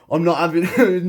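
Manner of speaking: he won't let his pupil beat him; defiant outburst. Retold or imitated. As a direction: burst out in competitive defiance. Competitive retort to friend.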